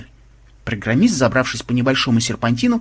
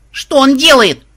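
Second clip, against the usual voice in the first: high, loud alarmed shriek; sudden yell; 12 semitones higher, 8 dB louder, slower than usual. A narrator's reading. Granddaughter watches the fight, sudden high yell. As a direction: cry out in disbelief. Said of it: "вдруг завопила внучка".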